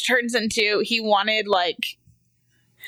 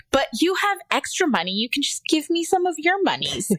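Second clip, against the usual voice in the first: lightly voiced kid, pitched up; imitated pleading child; 6 semitones higher than usual. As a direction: mimic a child bargaining with mom. Imitates son bargaining.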